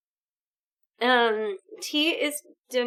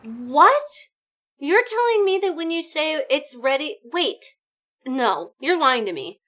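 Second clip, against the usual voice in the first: incredulous; 4 semitones higher, 6 dB louder than usual. Real, not acted. Chat says tea means dinner.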